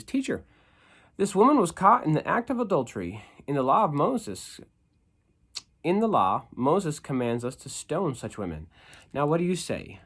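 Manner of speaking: high, loud accusing voice; accusing Pharisees. Acted. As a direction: accuse her before Jesus. Reading accusers' lines.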